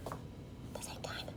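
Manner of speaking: whispered under the breath, slow; whispered aside. Real, not acted. Baker whispering an aside while she works, slow. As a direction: mutter it to yourself.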